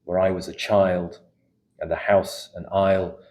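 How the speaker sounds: measured, unhurried poem reading with pauses between lines; poetry reading. Acted. Poet reading her own poem aloud to a live audience, measured and reflective.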